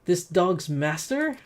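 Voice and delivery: lightly voiced hostile merchant; a touch of sneering challenge; obnoxious merchant, challenging. Merchant challenging the intervening adventurer, mildly hostile.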